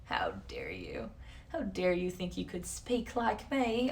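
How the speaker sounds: slow, affronted scolding in someone else's voice; offended European. Acted. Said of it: "they're probably like".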